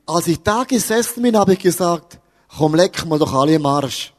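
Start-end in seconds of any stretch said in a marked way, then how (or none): 2.5-4.1 put-on child's curse in broad Swiss German dialect, a bit lower. Preacher retelling the child's curse in the cloakroom, in Swiss German dialect. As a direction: spit it out in Swiss German dialect as the offended kid. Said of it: "Auf Hochdeutsch".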